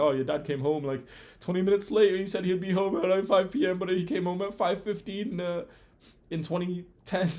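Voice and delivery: hammed-up complaining mother; mock nagging mum. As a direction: whine it like a petty grudge. Mocking mum's petty grievance.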